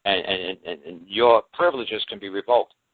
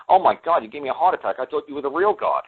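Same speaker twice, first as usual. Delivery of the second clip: acted relief after a fright; 5 semitones higher than usual. Acting relief after false alarm.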